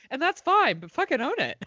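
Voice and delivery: laughing through the words; giggling as she says it. Real, not acted. Laughing while speaking.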